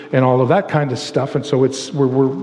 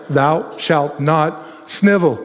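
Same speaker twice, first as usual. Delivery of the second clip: slow, mock-solemn scripture voice; mock commandment; much slower than usual. Preacher reciting a joke eleventh commandment, slow and solemn. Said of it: "that eleventh commandment".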